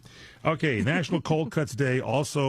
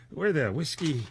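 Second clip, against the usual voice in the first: mock Irish boast; 6 semitones higher, 4 dB quieter than usual.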